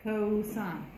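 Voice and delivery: cosine said in full, co-sign, slow; correct pronunciation cosine. Shown as a demonstration. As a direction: say cosine as the whole word, co-sign. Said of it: "We say cosine".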